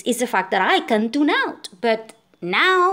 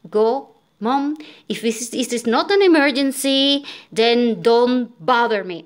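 retold yelling; 2 semitones higher, 3 dB louder than usual. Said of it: "I started yelling the hell out of".

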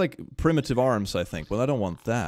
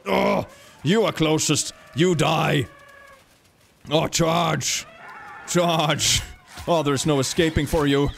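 mock monster villain; slower than usual. Creature closing in on prey, mock villain.

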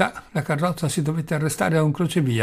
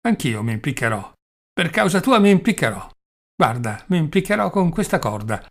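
raised, louder menacing threat; father threatening to scare her; 2 semitones higher, 3 dB louder than usual. Acted. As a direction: threaten the child loudly, working up to it. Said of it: "le dice per spaventarla".

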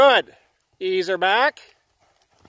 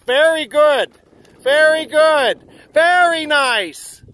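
slow drawn-out praise; 4 dB louder, slower than usual. Real, not acted.

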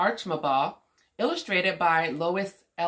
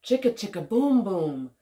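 put-on lilting, measured story reading for a child; picture-book read-aloud; slower than usual. A narrator's reading. Woman reading an alphabet story to young Omari, lilting read-aloud. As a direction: read it out rhythmically with playful swoops.

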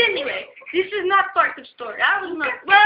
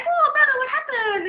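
a high, raised worried call; concerned call; 9 semitones higher than usual. Retold or imitated. Asking her storming brother what happened, raised alarm.

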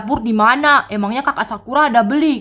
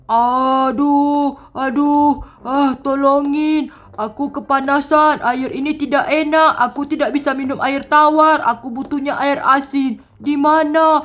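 suffering worm king. Acted. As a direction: whine about the heat, stretching some words. (raja cacing mengeluh kepanasan)

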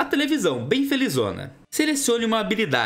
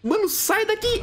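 being chased; 12 semitones higher than usual. Real, not acted. Teacher in his room.

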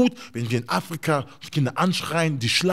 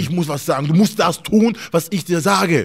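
loud, higher bossy parental yelling; shouting parent; 5 semitones higher, 10 dB louder than usual. Retold or imitated. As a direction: bark orders at the kid like a strict father. Imitates shouting strict African parents.

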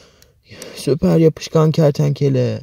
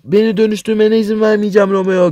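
higher and louder, chasing the villain; defiant heroine; 4 semitones higher, 5 dB louder than usual. Acted. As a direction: shout him down and chase him off. (kötü adamı kovalayan kararlı kahraman kız)

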